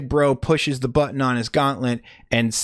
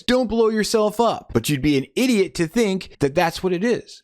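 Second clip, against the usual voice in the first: mock big brother; 8 semitones higher than usual. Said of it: "And he says".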